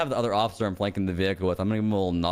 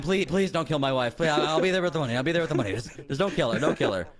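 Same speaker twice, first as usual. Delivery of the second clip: desperate pleading; 4 semitones higher than usual. Acted. Begging the kidnapper.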